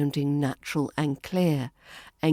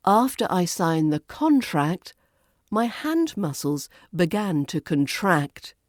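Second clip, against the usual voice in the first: noun "contract" as CONtract, verb "contract" as conTRACT; contrasting word stress. Shown as a demonstration. Teacher repeating the practice line, contrasting CONtract and conTRACT. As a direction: mark the shift from CONtract to conTRACT. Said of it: "exaggerating the stress differences at first".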